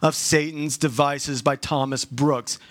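slow, spelled-out book title; slow it right down so they catch every word; said real slow. Shown as a demonstration. Pastor urging the church to read it, slow and deliberate. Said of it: "I'm gonna say that real slow".

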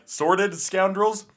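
slow, high-pitched mock puzzlement; incredulous question. Retelling puzzled reaction to the name.

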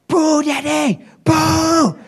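put-on high excited little-boy cry; toddler shouting. Father imitating his toddler son shouting at the TV, high and excited. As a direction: squeal it like a delighted toddler. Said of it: "He'd shout".

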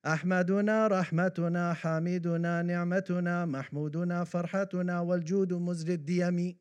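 fast, even Arabic recitation; verse recitation. Acted. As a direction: recite the devotional verse briskly in one steady run.

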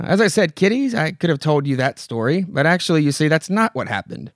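a lightly voiced old witch narrator; witch host voice. Old witch host telling the kiddies a tale, lightly creepy.

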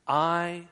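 "I" held alone, set apart by a pause; stress on I. Shown as a demonstration. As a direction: let "I" stand alone and get the attention. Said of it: "The word I is emphatic".

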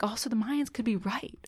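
hushed, conspiratorial whisper; whispered realization. Retold or imitated. Stoned woman sharing doomsday thought, mock-ominous whisper. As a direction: drop to a whisper, like a dreadful secret.

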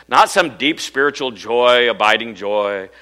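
slow, drawn-out piety; mock solemn. Mocking solemn idea of joy.

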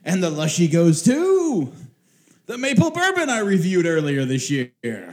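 put-on light old-time radio host; old radio serial announcer. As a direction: present the award like a vintage broadcast. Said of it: "my radio announcer voice".

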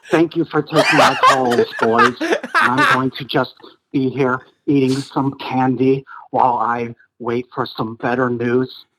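lightly voiced chipper astronaut caller; a hint of a rambling old caller; Don Pettit impression. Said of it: "lumpy-headed Don called in again".

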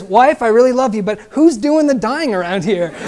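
mock exasperation, breaking into a laugh; exasperated punchline. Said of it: "And then finally he says".

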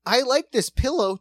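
hammed-up creepy admirer; mock creepy delight. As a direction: coo over the pillow like a creep. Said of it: "You're like".

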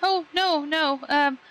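nervously backpedal, pitch lifting; hesitant, polite traveller. Acted. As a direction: stammer politely into a careful question. Player voices character questioning crewman.

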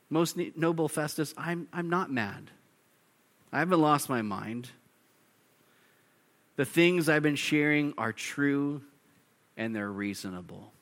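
soft, calm reply; calm and respectful. Retold or imitated. Paul answering Festus calmly without raising his voice. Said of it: "He calmly and respectfully".

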